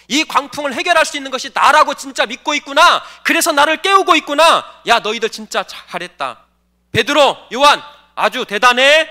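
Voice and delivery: loud, emphatic imagined commendation; acted-out proud congratulation, punched loud; mock hearty praise. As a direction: praise the disciples heartily, as if acting it out. Acts out Jesus praising disciples.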